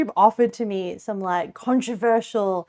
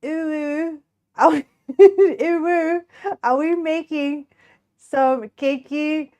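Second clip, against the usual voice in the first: high cutesy uwu voice, drawn-out words; put-on uwu voice; 5 semitones higher, slower than usual. Streamer attempting an uwu line for listeners, put-on cutesy voice. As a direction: try out a sing-song cutesy voice, higher than your own. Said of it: "let me try".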